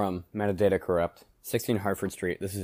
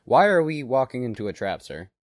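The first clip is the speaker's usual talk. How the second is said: confused; 7 semitones higher, 9 dB louder than usual. A narrator's reading. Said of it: "moderately confused".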